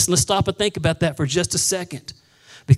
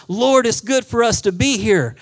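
Peter's eager exclamation; 5 semitones higher, 4 dB louder than usual. Acted. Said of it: "Peter goes".

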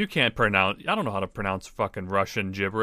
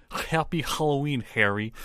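Russian accent, "Happy Halloween" with throaty h's; 3 semitones higher than usual. Shown as a demonstration. Co-host testing himself on the tip, Russian accent. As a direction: scrape each h in a Russian accent. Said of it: "like a Russian".

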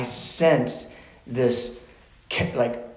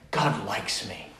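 softly savored, lower; velvet feeling; 4 semitones lower, 6 dB quieter, slower than usual. Retold or imitated. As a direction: let it land gently, like velvet. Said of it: "It had this velvet feeling to it".

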